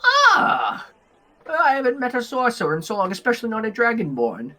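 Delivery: high cry settling into quick, high chatter; impressed little elf, high-pitched; small elf woman, delighted. Acted. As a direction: exclaim high, then rattle on quickly. Elf woman delighted to meet sorcerer.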